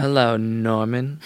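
slow, drawn-out greeting in imitation; Shelley Long. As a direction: stretch out a hammed-up hello. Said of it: "It's like Shelley Long".

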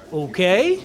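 drawn-out doubtful okay; questioning. Acted. Jorge gives a rival a questioning look, doubtful. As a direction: let it rise into a question. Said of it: "a questioning look, like".

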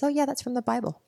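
calm, matter-of-fact husband, imitated lightly; offhand and unfazed, voiced lightly. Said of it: "very calmly, he says".

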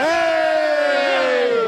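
big high hey; excited greeting. Pretend. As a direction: call out a cheery welcome. Mock greeting of arriving guest.

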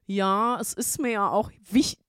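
lightly imitated earnest caller; a touch of mock earnestness; halting, humourless mock caller. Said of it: "der war auch so komplett humorlos".

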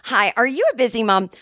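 upbeat spokesperson opener; ad read. Shown as a demonstration. Second take of the ad, upbeat pitch. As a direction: ask it like a cheerful ad host. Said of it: "can I try that one again".

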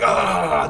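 drawn-out open "aah"; imitated cry as the hands connect; mock build-up "ah". Imitating wrestlers connecting hands, mock drawn-out "aah". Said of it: "they're like".

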